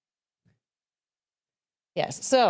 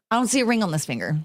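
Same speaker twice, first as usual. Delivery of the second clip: laughing through it, a bit quicker; faster than usual. Shown as a demonstration. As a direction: giggle while showing the bare finger. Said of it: "I'll put my right hand up".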